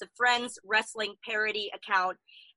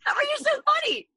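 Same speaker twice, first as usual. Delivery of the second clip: high, amazed disbelief; incredulous. Real, not acted. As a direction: marvel at it, half laughing. Disbelief she doesn't watch Friends.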